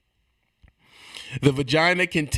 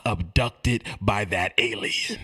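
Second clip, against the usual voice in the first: ordinary talk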